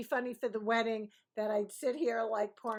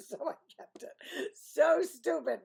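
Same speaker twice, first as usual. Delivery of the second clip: breaking up with real laughter; words squeezed out through high, breathy laughter; helpless laugh at oneself; 6 semitones higher, 6 dB louder, slower than usual. Real, not acted. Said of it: "I don't know why I'm laughing".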